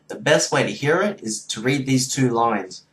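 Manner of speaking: low-pitched Aussie accent; Australian accent. Shown as a demonstration. Showing viewers two test lines, Australian accent. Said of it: "you wanna hear the Australian accent?".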